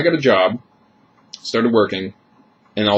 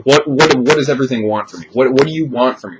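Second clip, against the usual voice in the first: higher and louder, pleading in a panic; desperate inner plea; 4 semitones higher, 5 dB louder than usual. Retold or imitated. Man on the toilet pleading with everything, higher and louder in desperation. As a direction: beg the universe for an answer, voice climbing.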